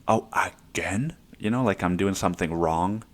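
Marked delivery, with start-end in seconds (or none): 0.1-1.2 mock disapproving dad. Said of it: "my dad be like".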